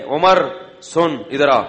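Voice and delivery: put-on a firm, commanding old woman's call; stern scolding. Old woman stopping Umar in the market, stern call. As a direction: call the caliph to stop with mild sternness. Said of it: "بڑی سخت لہجے میں کیا".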